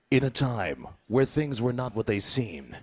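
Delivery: measured, understated narrator's voice; story narration. Acted. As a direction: open a tale with mild solemnity. Solemn story opening.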